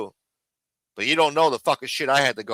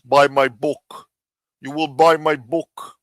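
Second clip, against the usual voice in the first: mock pitchman; 5 dB louder, slower than usual. Mocking Giacomo's pitch.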